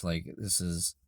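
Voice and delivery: hoarse, breaking into whisper; losing voice. Real, not acted. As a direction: voice worn out and raspy. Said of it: "I'm sorry I'm losing my voice".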